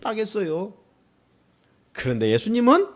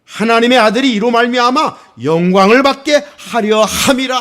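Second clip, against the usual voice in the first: scripture reading; 4 dB louder than usual. Acted. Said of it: "요한복음 십 장 사 절입니다".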